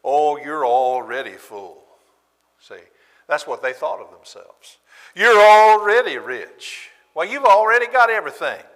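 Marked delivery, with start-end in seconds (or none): 0.0-1.8 sarcastic. Acted. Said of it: "he's getting sarcastic with them". 5.1-8.6 mocking sarcasm. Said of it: "he's getting sarcastic with them".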